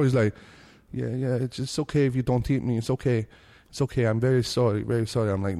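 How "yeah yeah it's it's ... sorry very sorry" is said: mock crying delivery guy. Imitating the crying delivery guy at the door, tearful.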